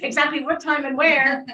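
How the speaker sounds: real laughter breaking into the words; laughing. Real, not acted. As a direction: giggle out the line. Joking about her astrologer.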